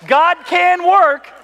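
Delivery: slow, high and loud, still laughing; laughing emphasis. Real, not acted. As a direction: drag out the words while laughing. Punchline said through laughter.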